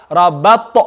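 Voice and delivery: Rabat with a bounced final t; with qalqala. Shown as a demonstration. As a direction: let the t of Rabat echo out. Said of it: "we want to bring in qalqala".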